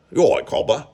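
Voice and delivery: badly faked Australian accent; hesitant second stab at an Australian accent; attempted Australian accent. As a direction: try an Australian accent and miss. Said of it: "I can't do an Australian accent".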